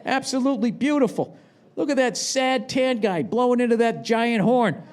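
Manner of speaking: high, gushing sightseer voice; mock admiring visitor in Australia; gushing tourist. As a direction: rave about the view like a naive tourist. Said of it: "I just go".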